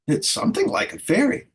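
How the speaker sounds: high breathy fairy voice; a mock-catty high fairy; barking fairy. A narrator's reading. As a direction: bark it out sharply. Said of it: "barked another".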